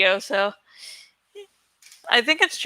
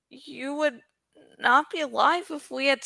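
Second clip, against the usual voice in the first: quiet dragon reply; 4 semitones higher, 6 dB quieter than usual. Acted. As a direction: answer softly and gravely. Dragon answers calmly.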